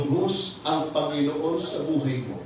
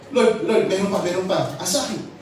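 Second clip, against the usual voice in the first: urgent calling, higher; eager; 5 semitones higher, 4 dB louder than usual. Retold or imitated. Satan eagerly pointing things out to Jesus. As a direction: tug at the Lord's sleeve eagerly.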